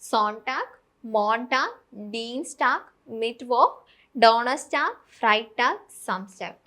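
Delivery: "സോൺടാഗ്, മോൺടാഗ്" each word set apart, clear and careful; pronouncing the days. Shown as a demonstration. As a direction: list "ഡീൻസ്ടാഗ്", "ഡോണേഴ്സ്ടാഗ്", "ഫ്രൈടാഗ്" slowly one by one. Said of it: "ഞാൻ ഒന്നുകൂടെ pronounce ചെയ്ത് തരാം". (ഓരോ ദിവസവും "സോൺടാഗ്" മുതൽ "സംസ്ടാഗ്" വരെ വ്യക്തമായി ഉച്ചരിക്കുക)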